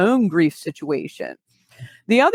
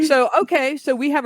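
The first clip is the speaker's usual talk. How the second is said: laughing; 8 semitones higher than usual. Real, not acted. Laughing after the joke.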